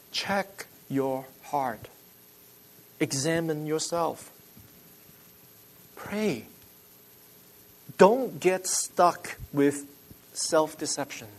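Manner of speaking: soft, slow, with long pauses; solemn exhortation. Real, not acted. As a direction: urge self-examination softly, one phrase at a time. Solemn exhortation to self-examination.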